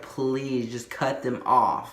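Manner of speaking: slow, drawn-out mock plea; retold pleading. Patient begs nurse to cut pants off, slow retold pleading. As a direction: stretch out the begging, without real desperation. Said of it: "I'm pleading".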